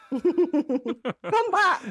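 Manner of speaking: put-on high, pleading baby talk; whiny pet voice. Shown as a demonstration. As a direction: beg the cat to return. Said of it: "that's how I talk to Jekyll".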